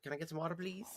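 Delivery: lightly voiced cat begging for water; voicing the cat's request. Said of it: "He's like".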